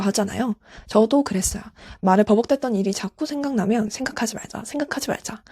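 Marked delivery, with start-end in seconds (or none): 3.9-4.6 quiet chanted self-reminder; first soft take of a repeated mantra; muttered like a spell. Retold or imitated. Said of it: "주문처럼 외웠거든요". 4.6-5.4 quiet mantra repeat, pitched higher; second soft take of the mantra, higher; repeated like a spell. Retold or imitated. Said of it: "주문처럼 외웠거든요".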